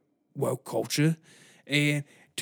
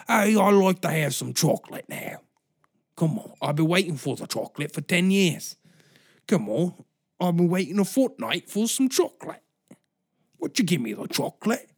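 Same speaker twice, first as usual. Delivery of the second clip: put-on old British voice; 4 semitones higher than usual. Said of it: "they're just like".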